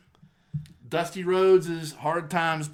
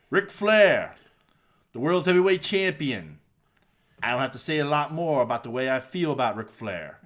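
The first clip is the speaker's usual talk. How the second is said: Dusty Rhodes impression. Podcast host imitating Dusty's Hard Times promo for his cohost, lightly voiced wrestler promo. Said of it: "I'm trying to do a Dusty impression".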